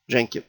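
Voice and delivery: "Jenkin" said softly, soft j; teacher repeating "Jenkin"; name repeated. Shown as a demonstration. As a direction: repeat "Jenkin" gently for the class. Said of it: "it's called the Jenkin".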